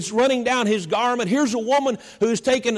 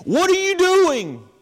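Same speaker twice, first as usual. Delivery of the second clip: raised, higher, indignant scolding; angry disciples; 3 semitones higher than usual. Retold or imitated. Preacher voicing furious disciples scolding the woman. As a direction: scold her for wasting the oil. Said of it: "They were angry. They were furious".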